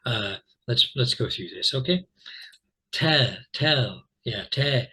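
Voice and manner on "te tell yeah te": "Te" said alone, short e like in "tell"; first syllable demo. Shown as a demonstration. Teacher isolating a syllable for students, careful demo. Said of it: "this is the first syllable".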